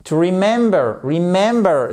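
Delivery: "remember" with stress on MEM; second-syllable stress. Shown as a demonstration. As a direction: lift the middle syllable of "remember". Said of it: "l'accentuation sur la seconde, la deuxième syllabe". (« remember » accentué sur la deuxième syllabe)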